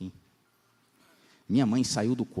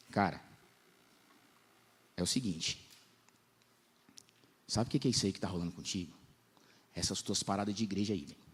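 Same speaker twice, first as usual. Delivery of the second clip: hushed confiding friend; 2 semitones lower, 5 dB quieter than usual. Retold or imitated. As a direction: lean in and tell him quietly.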